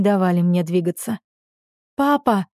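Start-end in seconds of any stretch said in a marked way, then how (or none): 2.0-2.5 high desperate cry of Papa; shouted call. A narrator's reading. Дочь кричит отцу через каток, громкий отчаянный зов. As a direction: call out to the father across the ice. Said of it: "крикнула я".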